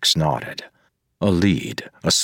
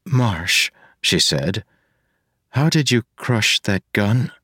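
put-on young woman voice; 6 semitones higher than usual. Marasi voice.

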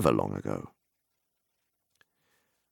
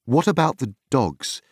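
higher voice, a touch of worry; anxious question; 8 semitones higher, 3 dB louder than usual. A narrator's reading. Frodo asking the farmer about his dogs, anxious. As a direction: ask with mild unease, pitched up. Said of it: "asked Frodo anxiously".

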